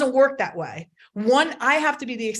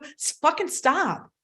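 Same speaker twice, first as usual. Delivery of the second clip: emphatic slow stop; 5 semitones higher, slower than usual. Real, not acted. Urging parents to stop negative self-talk.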